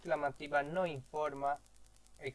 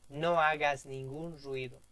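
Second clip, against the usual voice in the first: stern prohibition; 5 dB louder than usual. Acted. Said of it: "Negativa o prohibición".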